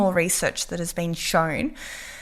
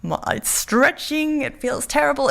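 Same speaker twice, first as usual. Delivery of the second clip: panicky inner voice; 6 semitones higher than usual. Pretend. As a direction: voice the fear of the stretch. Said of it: "rather than thinking".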